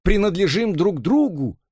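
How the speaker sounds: high, trembling tearful declaration; tearful plea. A narrator's reading. Robert in tears declares love to Elisa, high and pleading. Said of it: "по щекам катились слёзы".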